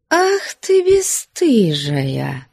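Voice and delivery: slow, grumbling reproach; grumbled. A narrator's reading. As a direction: grumble out the insult. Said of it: "проворчала Флёнушка".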